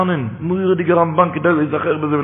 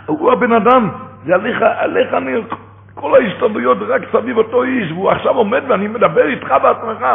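excited realization; 7 semitones higher than usual. Retold or imitated. Shnorrer realizes rich man speaks.

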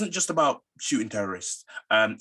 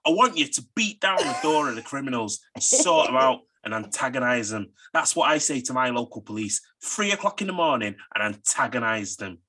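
hammed-up Manchester accent, punched at the start; badly faked Manc accent; put-on Manc accent. Shown as a demonstration. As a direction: lay on a Mancunian accent. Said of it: the speaker says he should do this accent because it's his own.

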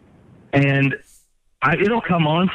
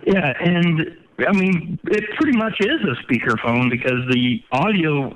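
on speakerphone. Real, not acted. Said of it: "it sounds like you're on a speakerphone".

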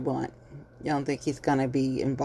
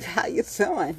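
camera-ready greeting; 4 semitones higher, slower than usual. Retold or imitated. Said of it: "once them cameras hit".

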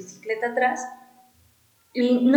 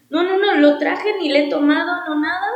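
insisting offer; 5 semitones higher, 4 dB louder than usual. Retold or imitated. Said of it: "así como".

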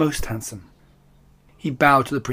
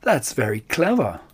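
calm. Acted. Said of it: "as calmly as it could".

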